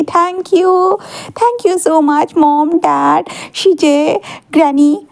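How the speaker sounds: happy thanks. Acted. Wing thanks his family for the birthday cake, beaming and stretched out. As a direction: gush your thanks at your own birthday party. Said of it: "बहुत खुशी से कहता है".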